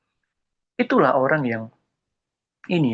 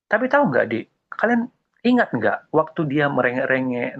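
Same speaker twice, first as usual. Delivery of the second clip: ordinary talk, nothing marked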